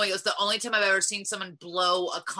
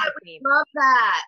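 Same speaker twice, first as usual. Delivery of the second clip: loud, high, delighted shout; excited; 5 semitones higher, 8 dB louder than usual. Real, not acted. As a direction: burst out with joy.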